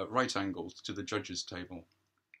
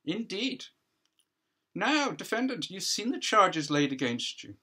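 louder, crisp cross-examining counsel; counsel questioning; 9 semitones higher, 4 dB louder than usual. Acted. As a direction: press the witness, formal and projected.

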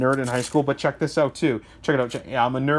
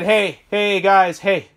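mock phone caller; 3 semitones higher, 3 dB louder, much slower than usual. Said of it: "I gotta get an American accent".

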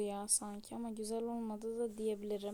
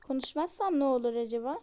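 louder, cheeky comeback with rising end; defiant challenge; 6 dB louder than usual. Acted. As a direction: talk back to mom, daring her. Daughter defies scolding mother. (meydan okuyan yüksek sesli soru)

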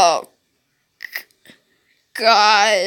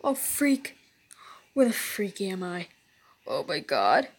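hushed frightened whisper; whisper, lost and afraid; scared whisper; 10 semitones lower, 8 dB quieter than usual. Real, not acted.

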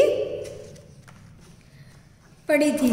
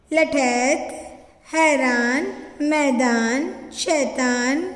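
word list reading; slower than usual. Shown as a demonstration. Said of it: "आपको भी साथ साथ में इसका उच्चारण करना है".

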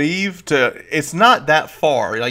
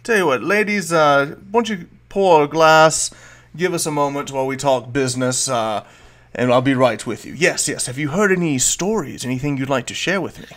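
smooth host; 2 semitones higher than usual. Acted. Volo sends the ladies off to talk business, smooth. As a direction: wave them off politely.

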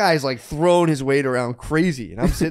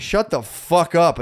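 slow, slightly raised angry command; retold anger; 4 semitones higher, 3 dB louder, slower than usual. Storyteller retelling his snap at a customer, angrily emphatic. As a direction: re-enact the outburst, each word weighted. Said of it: "I instantly black out with anger".

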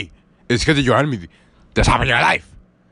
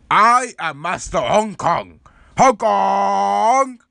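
slow, grand self-introduction as the master; martial arts master; 5 semitones higher, much slower than usual. Acted. Karate master introducing himself to the boy, slow and grand. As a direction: announce yourself like an old kung fu teacher. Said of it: "teacher whose name was Master Hong Kong".

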